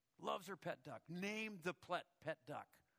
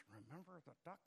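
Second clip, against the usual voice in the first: much softer, under the breath; whispered threat; 9 dB quieter than usual. Retold or imitated. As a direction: sister threatening brother under her breath. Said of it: "under her breath, she whispers".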